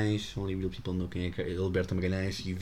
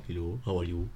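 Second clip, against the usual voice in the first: fake Indian accent; 4 semitones lower than usual.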